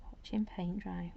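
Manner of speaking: slow whispered dry joke; whispered deadpan. Real, not acted. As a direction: breathe out a slow deadpan quip. Dry joke about slow painting.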